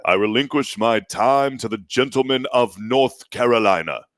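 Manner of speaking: slow, mock British parliamentary delivery; measured, faux-British congressional formality; mock British accent. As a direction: lay on a stately British-style accent. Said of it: "speak it with that British accent".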